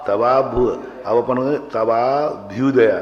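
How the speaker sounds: तवाभ्युदय said syllable by syllable; pronunciation demo. Shown as a demonstration. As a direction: spell out तवाभ्युदय carefully. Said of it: "पढ़ना कैसे चाहिए?". (तवाभ्युदय का उच्चारण)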